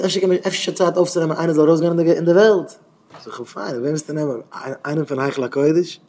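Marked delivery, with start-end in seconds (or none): 0.0-2.8 retold question. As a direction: put the question as if pressing someone. Retells someone's pressing question. (איבערגעגעבענע דרינגענדע פראגע)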